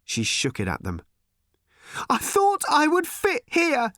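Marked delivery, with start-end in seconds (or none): 2.1-3.9 put-on high, slow, pained cry of a young girl; a girl's voice pleading in despair; crying teenage girl. A narrator's reading. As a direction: cry it out as the lost daughter. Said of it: "she cried".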